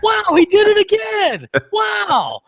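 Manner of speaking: very high, slow outraged shout; impression of a musician. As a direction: howl in disbelief, again and again. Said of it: "This is how he sounds".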